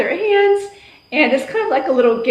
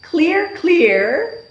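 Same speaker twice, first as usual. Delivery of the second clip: teacher call; 6 semitones higher than usual. Shown as a demonstration. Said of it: "I will say".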